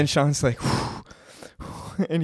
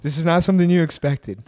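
mock-serious deep self-talk; mirror pep talk; 4 semitones lower than usual. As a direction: coach yourself gravely, drawing the words out. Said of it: "the mirror Sean's like".

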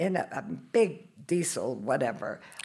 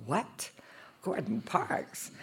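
stunned disbelief; 5 semitones higher, 6 dB quieter, much slower than usual. Retold or imitated. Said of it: "And I went".

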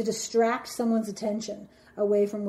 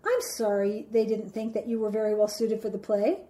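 manipulative sorry; 4 dB quieter than usual. Acted. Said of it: "in an act of manipulation".

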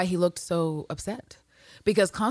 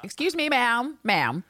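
a hint of an affronted parent; mock indignant parent; 5 semitones higher, slower than usual. Parent calls out a rude gymnastics teacher, mock indignation. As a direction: object like a parent, high at first. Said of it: "Where are the parental units to be like".

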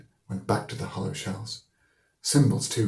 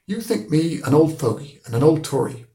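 thoughtful; 8 semitones higher, 8 dB louder than usual. Acted. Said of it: "his thoughtful voice said".

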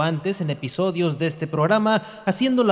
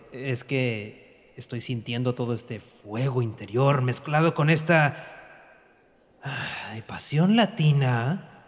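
hammy Latin passion; 4 semitones lower, 4 dB quieter than usual. Acted. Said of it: "abusando con el recurso de la pasión latina".

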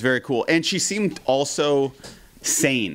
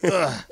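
imitated "ugh" of disgust; mock a repulsed little groan; 3 semitones higher than usual. Fan asked if she likes Max, mock disgusted groan. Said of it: "like she was disgusted".

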